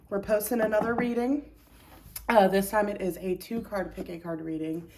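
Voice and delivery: slightly breathless talking; out of breath. Real, not acted. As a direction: speak a little winded. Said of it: "I'm a bit out of breath".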